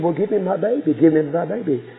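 urgent demand. Acted. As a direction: demand the baby back at once.

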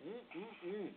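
quiet pleased hum while eating; hum of enjoyment. Real, not acted. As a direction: savour the bite with a soft hum. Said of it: "sneak in a snack here".

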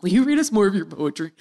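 lightly voiced drunk friend. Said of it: "us all being drunk".

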